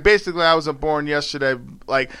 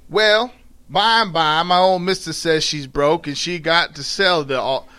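Southern dialect read-aloud; storytelling in dialect. A narrator's reading. Attempting the slave woman's story, in Southern dialect. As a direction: read it with a put-on Southern accent.

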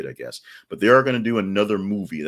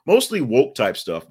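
slow, louder sarcastic drawl; sarcastic jab; 5 semitones higher, 7 dB louder than usual. Real, not acted. Host mocking complaining parents, slow sarcastic jab. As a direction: drag out the jab.

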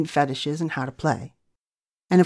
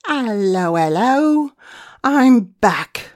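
playful greeting; 6 semitones higher, 6 dB louder, slower than usual. Real, not acted.

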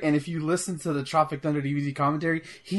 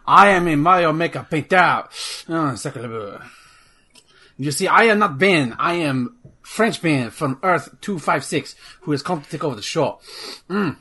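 hammed-up fake French accent, louder; bad French accent; 4 dB louder than usual. Ben pretending to be French Ben hijacking the show, hammy French accent. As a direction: play a cartoonish Frenchman taking over the show. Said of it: "a bad French accent".

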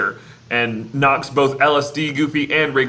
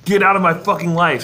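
mock angry yell; 5 semitones higher, 4 dB louder than usual. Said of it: "quoting Max's line".

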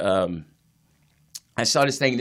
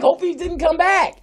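slow teasing quote; 12 semitones higher, slower than usual. Retold or imitated. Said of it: "we were like".

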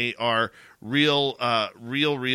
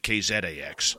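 K Z A X with a light Canadian accent, letters as a Canadian says them; a touch of Canadian in the letters K Z A X; 4 semitones lower than usual. Shown as a demonstration. Host redoing the call letters, light Canadian accent. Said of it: "in my Canadian accent".

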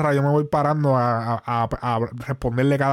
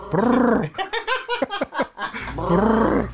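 gun burst noise; 8 semitones higher than usual. Retold or imitated. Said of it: "lo miraba y le decía".

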